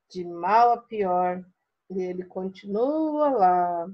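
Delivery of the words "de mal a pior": slow, lower, moping complaint; glum spider. Shown as a demonstration. Teacher reading the sick spider's line to pupils, slow and glum. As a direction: sound miserable and worn out. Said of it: "Tá vendo como mudou a nossa leitura?".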